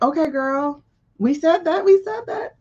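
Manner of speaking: put-on high, sing-song Valley Girl. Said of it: "you know it's bad when you use your Valley Girl voice".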